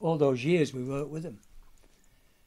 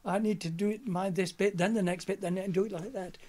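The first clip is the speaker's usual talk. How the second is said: quoting Ronnie; 6 semitones higher than usual. Retold or imitated. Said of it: "he said".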